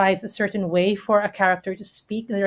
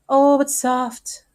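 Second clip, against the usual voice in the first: raised, slow theatrical delivery; dramatic Shakespeare line; 6 semitones higher, slower than usual. Shown as a demonstration. Teacher quoting Romeo to the class, slow theatrical declaiming. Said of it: "meaning wait".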